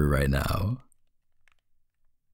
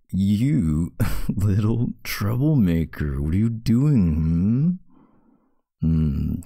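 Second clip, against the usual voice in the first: laughing tease; 3 semitones higher, 3 dB louder, slower than usual. Acted. Partner teasing, pushing her arm.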